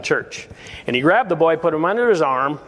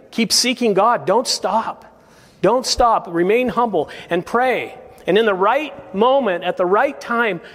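higher-pitched, insistent preaching; earnest preaching exhortation; 5 semitones higher than usual. Real, not acted. Preacher urging the congregation to keep praying, earnest exhortation. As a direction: press each plea on the listeners.

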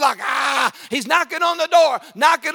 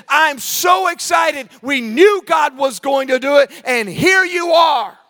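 overjoyed; 4 semitones higher than usual. Retold or imitated. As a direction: greet them with gushing excitement. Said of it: "she was so overjoyed".

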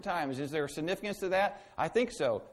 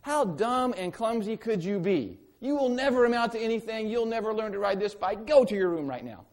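higher, louder, contemptuous berating; hammed-up nasty bike helper; mock harsh scolding; 6 semitones higher, 6 dB louder than usual. Imagined bike helper scolding a crashing child in mock anger. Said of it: "did they look at you and go".

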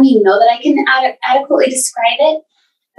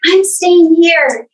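raised-pitch reenactment of a defiant cry; retold loud declaration; 6 semitones higher than usual. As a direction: declare it as if to the neighborhood, without full shouting. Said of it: "I said so loudly".

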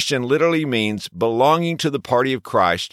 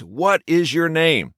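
slow, louder, higher demand; 5 semitones higher, slower than usual. A narrator's reading. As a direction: raise your voice and slow down. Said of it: "A third time and more loudly".

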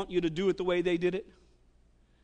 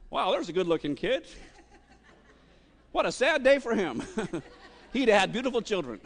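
laughing; 2 semitones higher than usual. Acted. Goliath's thoughts voiced, laughing.

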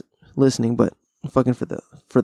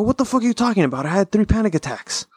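retold outburst; 8 semitones higher, faster than usual. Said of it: "And I go".

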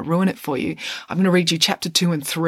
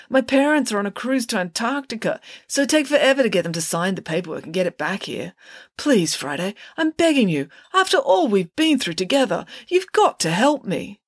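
put-on oversell the bargain like a desperate teenager; pleading Parker; 5 semitones higher than usual. Parker begging Friday again.

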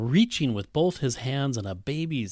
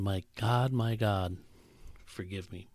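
tearful prayer; 4 semitones lower, 9 dB quieter than usual. Retold or imitated. Mother crying, praying.

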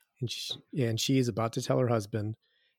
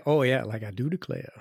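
put-on Southern accent. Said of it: "offended the entire American South".

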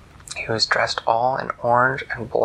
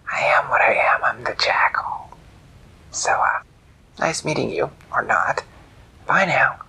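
smug jackal; 3 semitones higher than usual. Acted.

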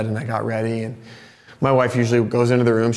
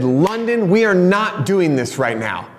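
higher, mildly heated parental reprimand; retold angry scolding; 5 semitones higher, slower than usual. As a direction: firmly scold the child, reenacting frustration. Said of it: "I'm angry. I'm frustrated".

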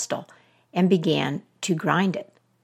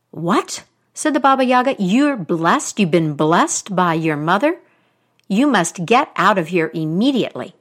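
1 alarmed; 4 dB louder than usual. Acted. Witch alarmed by blessing.

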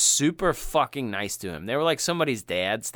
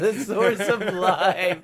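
laughing; 7 semitones higher, slower than usual. Real, not acted. Repeating the joke, amused.

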